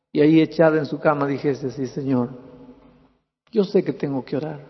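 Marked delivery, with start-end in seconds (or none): 1.7-4.6 lightly voiced sad twelve-year-old girl, pouring out her heart; sad girl praying. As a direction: tell God her bad day, half sobbing, half complaining. Preacher voices girl's sad prayer. (niña triste que le cuenta a Dios su mal día, voz apenas actuada)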